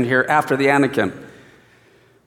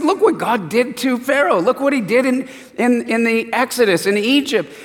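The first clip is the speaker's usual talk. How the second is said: a hint of higher, urgent reminding; Caleb pleading; 5 semitones higher than usual. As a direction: remind them of what God did. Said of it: "He said".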